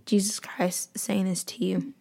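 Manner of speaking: hushed, breathy-free whisper under the breath; soft whisper. Real, not acted. To listeners picturing Jesus beside them, a soft whisper. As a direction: whisper it as if Jesus were close.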